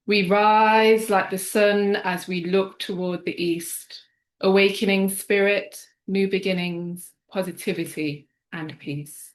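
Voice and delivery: slow, declaiming spoken-word poem; poetry reading. Acted. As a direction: rise with each line, rhythmic and solemn. Reciting her poem.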